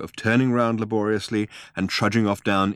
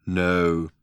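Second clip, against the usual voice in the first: thin metallic robot voice. Acted. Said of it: "a thin metallic voice".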